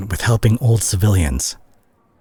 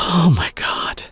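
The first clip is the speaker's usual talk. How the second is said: exasperated disbelief; 11 semitones higher, slower than usual. Acted. Confronting a lying friend.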